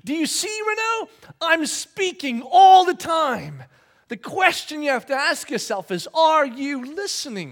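high, loud, slow divine insistence; emphatic voice of God. Retold or imitated. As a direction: drive the question home as God. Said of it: "And God went".

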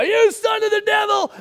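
high, hammed-up rebuke; mock curse. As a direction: play the zealot for laughs. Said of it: "our job is to step into their lives and go".

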